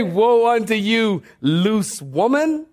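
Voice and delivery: mock condemnation, slowing on the last words; mock harsh rebuke. Preacher shows what Jesus didn't say to her, mock harsh. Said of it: "He never spoke harshly to her".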